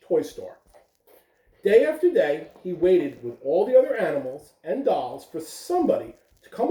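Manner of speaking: gentle read-aloud storytelling voice; lively picture-book reading; reading to children. Acted. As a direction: read it like story time for little ones. Teacher reads picture book aloud.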